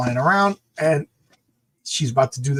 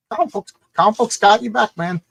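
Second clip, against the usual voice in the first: louder, higher pitchman; hyped ad voice; 7 semitones higher, 4 dB louder than usual. Retold or imitated. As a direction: sell it like an old comic ad. Reading ad.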